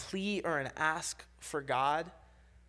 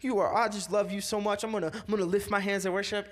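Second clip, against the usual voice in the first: sly flattery; 4 semitones higher than usual. Retold or imitated. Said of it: "slyly be like".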